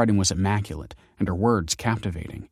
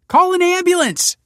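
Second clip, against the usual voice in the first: much higher, louder urgent shout; 8 dB louder than usual. A narrator's reading. Grandson shouting to passers-by for an ambulance. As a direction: bellow for help to passers-by. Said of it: "cried Michael".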